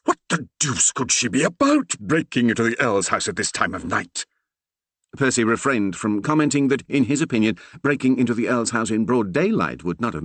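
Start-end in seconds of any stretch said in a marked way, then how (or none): 0.0-4.2 put-on a fussy vicar groaning at his children.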